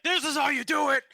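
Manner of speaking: high, loud instructing shout; mock battle-instructor yell; barbarian drill sergeant. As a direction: yell a demonstration at the recruits. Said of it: "you can tell 'em".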